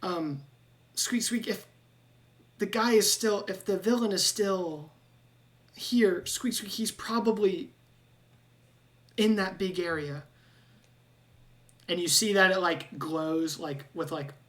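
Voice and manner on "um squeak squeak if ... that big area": higher rat voice, urging the heroes on; a worried rat begging for help; squeaky rat-man. Acted. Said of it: "and he goes".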